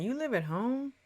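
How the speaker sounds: the speaker gasping at a grown man living at home; incredulous. Real, not acted. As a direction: shoot up in pitch at the news. Reacting in disbelief.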